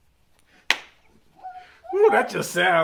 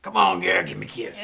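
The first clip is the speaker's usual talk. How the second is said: put-on old man voice; 2 semitones higher than usual. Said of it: "the old man voice".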